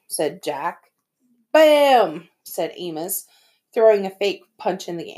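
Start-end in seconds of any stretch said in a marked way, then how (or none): 1.5-2.3 excited. Acted. Throwing a fake punch.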